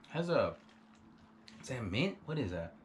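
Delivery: speaking between sips; sipping through a straw. Real, not acted. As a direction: lips around straw. Seen 2: straw at lips around 2.8-3.6 and 5.1 onward; drink examined between.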